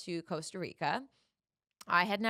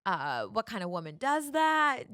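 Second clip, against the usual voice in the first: louder, half-hearted retold rant; mock angry yelling; 5 dB louder than usual. Boyfriend raging at her through the locked door, mock yelling. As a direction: replay his rant a notch up. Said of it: "just, like, yelling, screaming".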